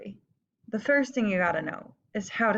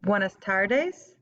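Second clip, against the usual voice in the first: slow clear model; much slower than usual. Shown as a demonstration. Teacher modelling "Buenas tardes" slowly. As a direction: stretch it out for students. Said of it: "modelling phrase".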